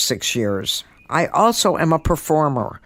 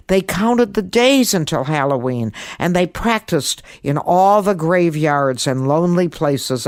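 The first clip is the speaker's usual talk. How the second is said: put-on gentle children's story narration; storytelling. A narrator's reading. Host reading her Halloween story to children, storytelling voice. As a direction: read it as if to children at bedtime.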